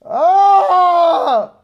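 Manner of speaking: mock frustrated yell. Sudden outburst before vaccine topic.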